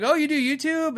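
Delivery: high-pitched impressed question; imitated wide-eyed surprise, pitched well up; surprised interest. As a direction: mimic someone suddenly fascinated. Imitates another worker's impressed reaction.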